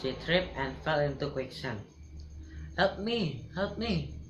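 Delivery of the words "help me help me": panicked cry for help. Acted. Queen trapped in quicksand, panicked calls for help. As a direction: scream for help while sinking.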